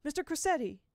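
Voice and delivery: high, loud blurted name; spat out. Acted. Will forcing the name out to Miss Foley, loud and high. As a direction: spit the name out after stammering. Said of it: "then spat it out".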